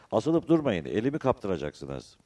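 loud, high warning yell that eases off; shouting. A narrator's reading. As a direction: yell a warning to the men on the barge. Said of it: "Mavnadakilere bağırdı". (bağırarak uyarır gibi)

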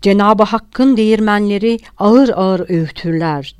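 grand speechifying tone; oratorical. A narrator's reading. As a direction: declaim it like a speech, savouring it. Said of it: "adeta bir nutuk söylüyormuş gibi".

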